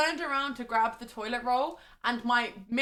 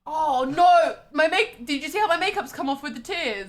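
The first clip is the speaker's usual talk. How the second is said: loud, higher wailing fake distress; fake crying; 5 semitones higher, 11 dB louder than usual. Pretending her makeup ran from crying, loud fake distress. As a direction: ham up a fake sob. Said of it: "I'm gonna fake cry as well".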